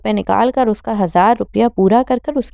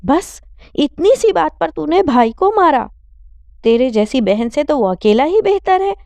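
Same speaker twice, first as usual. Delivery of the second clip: pitched-up furious scolding; angry mother; 6 semitones higher than usual. Acted. Mother scolding daughter for beating her brother, angry. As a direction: take the son's side, furious. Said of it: "Rashida نے غصے سے کہا".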